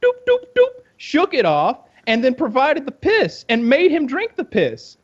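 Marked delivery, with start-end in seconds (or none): 0.0-0.8 high, loud little doops; sound-effect voice. Acted. Friend acting out the shake-off, comic sound effect. Imitates the shaking motion.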